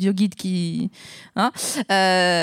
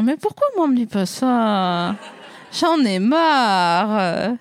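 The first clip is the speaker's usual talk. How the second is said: mock self-pity; slower than usual. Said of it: "j'étais là, genre".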